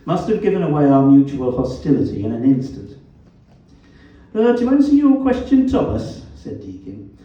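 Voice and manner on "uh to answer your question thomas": high, loud, smug Black Country; Black Country accent. A narrator's reading. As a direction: answer smugly in broad Black Country. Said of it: "His black country accent was as vowelish as ever".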